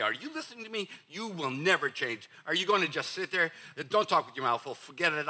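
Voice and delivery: stock phrases run together; rapid recital. Shown as a demonstration. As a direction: rattle them off without pausing. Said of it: "let me just say these all real fast".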